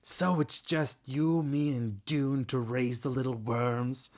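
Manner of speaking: grumbling contempt; growled. Acted. Kestrel complaining to Webb, a mild growl. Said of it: "Kestrel growled".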